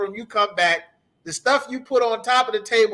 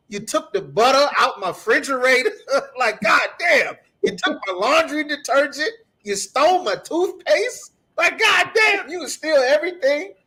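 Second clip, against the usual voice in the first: mock outrage; 4 semitones higher than usual. Ranting as a robbed homeowner.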